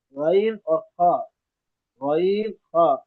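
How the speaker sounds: غین and خا said full and thick; heavy throat letters. Shown as a demonstration. Teacher modelling both letters, thick غین and خا. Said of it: "آواز ان دونوں کی ہمیشہ موٹی ہوگی".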